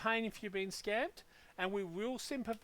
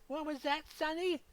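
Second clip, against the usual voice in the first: put-on old guy; 6 semitones higher than usual. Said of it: "I'm an old guy".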